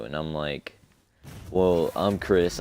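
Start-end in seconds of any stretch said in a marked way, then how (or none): 1.5-2.6 a slow, barely deeper fake voice, posing as Chris; lightly acting tough to fool the gate guard; put-on deeper voice. To the gate guard, pretending to be Chris, a slightly deeper slow voice. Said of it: "I say it in a kind of deeper voice".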